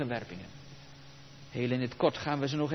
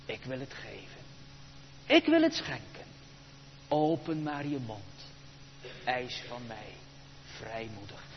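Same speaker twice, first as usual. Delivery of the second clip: God's offer; 5 semitones lower, 6 dB quieter than usual. Acted. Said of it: "En dan ook het tweede".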